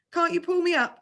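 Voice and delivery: high, pleading plea; a scared boy begging the instructor. A narrator's reading. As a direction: beg him to pull you up. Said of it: "I begged".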